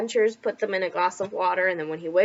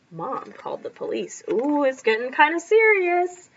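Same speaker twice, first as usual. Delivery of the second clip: panicked shout; 3 semitones lower than usual. A narrator's reading. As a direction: shout like you've just been robbed. Reads story aloud to class.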